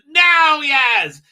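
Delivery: loud, hammed-up call to action; mock command shout. Retold Doctor signalling Yaz to act, loud mock shout. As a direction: shout the cue across the scene.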